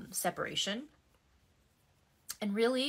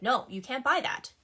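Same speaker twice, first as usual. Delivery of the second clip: controlling ex voice; 4 semitones higher than usual. Retold or imitated. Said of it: "hear my ex's voice in my head all the time being like".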